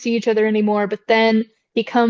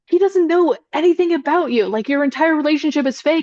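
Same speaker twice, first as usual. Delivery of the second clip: put-on urgent yelling; 5 semitones higher than usual. Retelling a movie scene at an airport: imitating someone yelling. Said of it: "yelling up at them".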